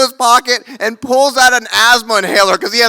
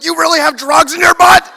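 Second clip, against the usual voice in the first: laughing disbelief; 7 semitones higher, 4 dB louder than usual. Retold or imitated. Shocked at drug news.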